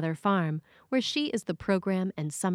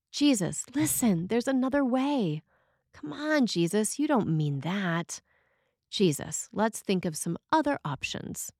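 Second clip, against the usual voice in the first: a lightly voiced Peter pleading with Jesus, pitched up; Peter arguing; 3 semitones higher than usual. Peter argues with his friend Jesus, mild pleading protest. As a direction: coax him, half-arguing, half-begging. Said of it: "by arguing with Jesus".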